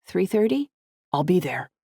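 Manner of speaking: pleased, smiling confirmation; smile in voice. A narrator's reading. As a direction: let a smile colour the words. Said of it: "hear the smile in his voice".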